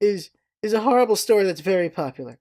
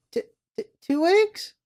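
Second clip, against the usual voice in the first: nervous raccoon; 11 semitones higher than usual. Retold or imitated. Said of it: "the raccoon goes".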